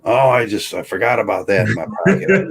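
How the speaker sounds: mock-innocent excuse; feigned forgetful innocence. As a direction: play the confused old-timer caught out. Acting old shoplifter caught in store.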